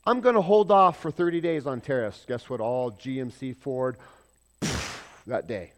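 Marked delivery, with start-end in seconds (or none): 0.0-2.2 loud, higher announcement; mock president. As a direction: proclaim it like a president at a podium. Quoting the president again.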